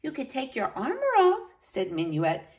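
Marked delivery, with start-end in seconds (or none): 0.0-1.5 put-on high child's voice; little niece, coaxing. A narrator's reading. Niece coaxing uncle out of armor, high voice. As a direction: suggest it in a small voice.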